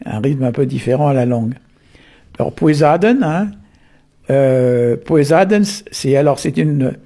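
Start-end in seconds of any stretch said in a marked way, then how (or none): 2.5-3.2 poesaden spoken clearly as pwe-za-den, a little raised; Breton word said clearly. Shown as a demonstration. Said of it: "ça veut dire la, la pesée". 5.0-5.6 poesaden spoken clearly as pwe-za-den, a little raised; Breton word said clearly. Shown as a demonstration. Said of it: "ça veut dire la, la pesée".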